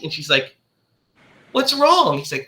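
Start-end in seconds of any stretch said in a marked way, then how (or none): 1.5-2.2 higher-pitched wife's question; a hint of a concerned wife; lightly voiced wife. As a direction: imitate a wife asking, pitch lifted.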